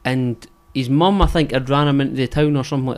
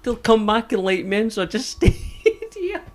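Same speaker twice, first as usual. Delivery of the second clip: higher, meek mum voice broken by laughs; mum's excuse; 7 semitones higher than usual. Retold or imitated. Storyteller voicing the mum explaining herself to Colin, meek. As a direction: play the apologetic mother.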